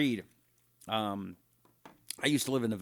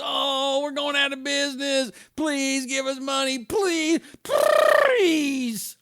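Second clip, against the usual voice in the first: much higher, pleading cartoon rabbit voice, rising higher on each please; Roger Rabbit; 11 semitones higher, much slower than usual. Mocking public broadcasters begging for money, in a high pleading cartoon rabbit voice. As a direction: beg like a panicky cartoon rabbit. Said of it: "That was my Roger Rabbit impression".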